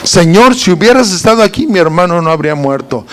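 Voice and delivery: quick, matter-of-fact complaint; brisk greeting. Retold or imitated. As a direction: rattle it off, standing upright. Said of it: "Fue el mismo saludo". (reclamo rápido y directo)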